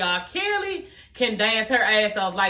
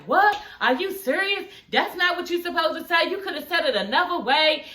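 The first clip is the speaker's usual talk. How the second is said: shocked outrage; 5 semitones higher than usual. Retold or imitated. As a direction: retell Nivea's disbelief, higher. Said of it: "Nivea's like".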